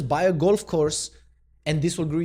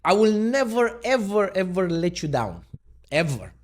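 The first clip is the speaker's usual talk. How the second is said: Trump impression; 5 semitones higher, 4 dB louder than usual. Quote belted out as Trump.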